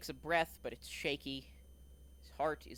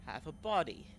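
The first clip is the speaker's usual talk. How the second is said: a smug dark figure's voice; menacing villain; 5 semitones higher than usual. Acted. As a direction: announce it with cold amusement. Menacing NPC voice.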